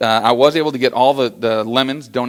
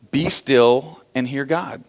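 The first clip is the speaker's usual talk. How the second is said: calm quote; much slower than usual. Shown as a demonstration. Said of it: "you have to be quiet".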